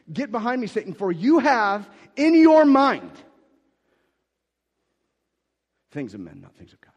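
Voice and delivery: stern loud rebuke that fades off at the end; forceful rebuke. Acted. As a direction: throw the command at him with full force.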